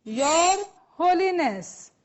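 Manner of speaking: drawn-out call for repeating; loud model phrase. Shown as a demonstration. Teacher leading students in repetition, called out slowly. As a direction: call it out slowly for a class to echo. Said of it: "મોટેથી બોલજો".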